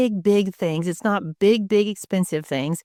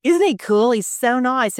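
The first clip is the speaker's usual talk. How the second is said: excited gush; 6 semitones higher than usual. Real, not acted. Excited praise of guest.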